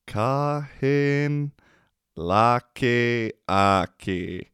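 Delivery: "Kahin laki aki" through a laugh, slow; amused slow "Kahin laki aki"; laughing repeat. Shown as a demonstration. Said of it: "repeats the word, laughing".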